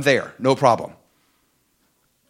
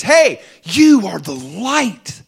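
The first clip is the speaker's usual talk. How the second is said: Jesus calling out; 5 semitones higher, 4 dB louder, much slower than usual. Retold or imitated. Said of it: "And he says".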